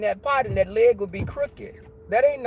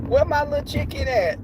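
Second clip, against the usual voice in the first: put-on high childlike calling; kid calling; 7 semitones higher than usual. Little kid searching the yard for her chicken, high and sweet. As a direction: call out for your lost chick, pitched up.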